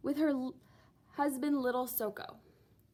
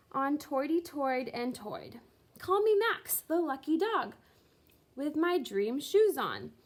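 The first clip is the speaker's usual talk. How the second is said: lively nonsense-verse performance; poem recitation. A narrator's reading. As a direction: recite it to the party with bouncy glee. Max reads his poem aloud.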